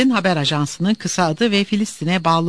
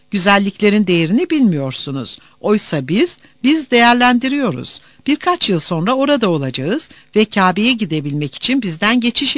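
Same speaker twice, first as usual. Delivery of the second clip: higher, forceful mocking harangue; taunting customs official; 5 semitones higher, 4 dB louder than usual. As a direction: lord it over the travellers. Official taunts travellers, refuses their goods. (alaycı, buyurgan gümrük görevlisi)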